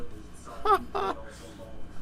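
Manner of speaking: high strangled laugh of pain; pained laugh-cry. Real, not acted. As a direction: laugh through the sting. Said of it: "Shit, I hit my funny bone".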